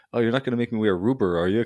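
put-on a light Irish accent, a bit quick. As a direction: lightly imitate an Irish movie gunman. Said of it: "he says it with his Irish accent".

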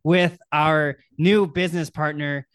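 slow, loud on-air introduction; drawn-out host intro; live show announcer. Pretend. Host announces a guest going live.

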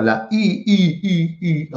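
I said like the French u, lips rounded; I sounded as the French u vowel; I drawn out like French u; French-style vowel. Shown as a demonstration. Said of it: "es como la I del francés".

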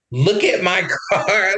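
slow, laughing through the repeat; laughing disbelief. Retold or imitated. Laughing while showing the cop the wrecked car. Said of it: "I kept saying that".

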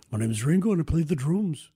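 clumsy Liverpudlian accent impression; impression of a musician. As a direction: put on a shaky Scouse accent to introduce yourself. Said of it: "trying to do an impression of a musician".

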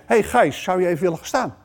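gentle call by his own name; kind call by name. Shown as a demonstration. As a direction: ask gently and personally. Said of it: "Dat klinkt al heel anders".

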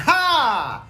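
a long breathy "ha" of noticing; surprised "ha". Shown as a demonstration. Guest showing how you react to a notable difference, drawn-out "ha". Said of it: "you go like".

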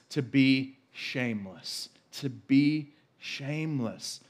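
slow, deliberate; preacher slowing down on shameless; slow emphasis. Shown as a demonstration. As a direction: spell it out slowly, word by word. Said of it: "repeats slowly for emphasis".

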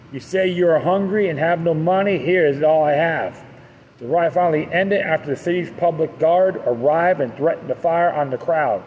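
steady documentary reading voice; article narration. A narrator's reading. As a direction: read it like a history narration. Reads a history article aloud.

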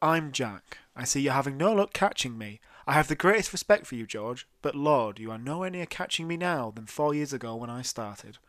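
put-on loud, full northern English accent, close to the mic. Reading the hoax tape's taunt to the police in a loud northern English accent. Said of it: "to get full northern definition".

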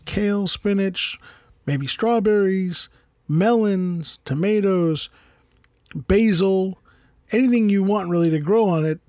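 upbeat sponsor read, slowing on the produce list. Acted. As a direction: pitch the product like a radio spot. Host reads sponsor ad.

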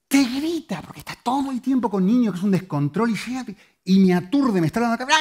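high, agitated imitation of noisy child; worked-up comic complaint; mock overwhelmed ranting. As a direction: rattle it off as if besieged by noise. Mimics his shouting, overwhelming son.

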